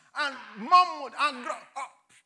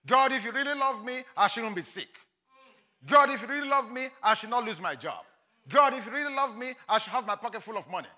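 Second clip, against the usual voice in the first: raised, louder plea, like arguing with God; whining complaint to God; 4 dB louder than usual. Acted. Preacher voices a believer arguing with God, louder complaint. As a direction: demand answers from God, pressing each line.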